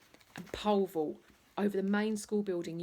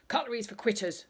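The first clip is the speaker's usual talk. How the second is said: Mr Bulk's motto; 4 semitones higher, 5 dB louder, faster than usual. Acted. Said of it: "was another one of his mottos".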